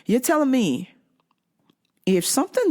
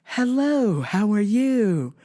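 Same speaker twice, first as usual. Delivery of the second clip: slow, sing-song stiff greeting; imitating robotic niceness; strange robotic tone; 4 semitones higher, slower than usual. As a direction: mimic that eerily cheerful tone. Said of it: "That same strange tone".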